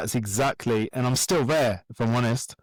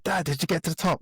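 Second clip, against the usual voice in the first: higher, lightly imitated eager son; excited kids; 6 semitones higher than usual. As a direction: play his boy, keen to hear the news. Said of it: "all excited".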